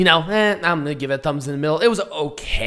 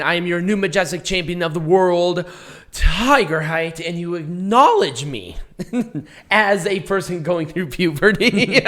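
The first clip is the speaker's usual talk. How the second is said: hoarse, breaking voice; lost voice. Real, not acted. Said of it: "I kinda sound like it right now".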